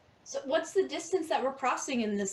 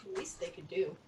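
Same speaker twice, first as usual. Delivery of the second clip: whispered aside, softer; 7 semitones lower, 7 dB quieter than usual. Real, not acted. Player whispering a snide aside about vomit. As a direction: breathe it under your voice.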